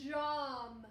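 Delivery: put-on Jom, said slowly and clearly for children; reading the word aloud. Shown as a demonstration. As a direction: sound out Jom plainly. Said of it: "So let's read the word".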